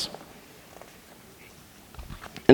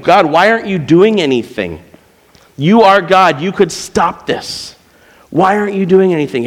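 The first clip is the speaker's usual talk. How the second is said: frustrated prayer; 3 semitones higher than usual. Retold or imitated.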